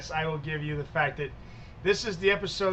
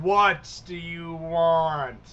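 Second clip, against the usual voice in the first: slow, drawn-out demand; intimidating; 4 dB louder, much slower than usual. Acted. Tall man confronts callers at his door, slow intimidating demand. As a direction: stretch each word to loom over them.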